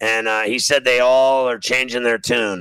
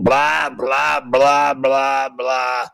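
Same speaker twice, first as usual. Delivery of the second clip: dismissive blah blah; much slower than usual. Real, not acted. Dismissing conspiracy talk.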